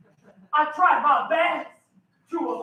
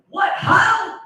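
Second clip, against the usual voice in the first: lightly hammed-up old-timey hail, higher; old-timey greeting; 5 semitones higher, 5 dB louder than usual. Man hails a woman on a grassy knoll, old-timey greeting. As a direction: call out a mock old-world hello. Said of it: "That's how they said hello back in the day".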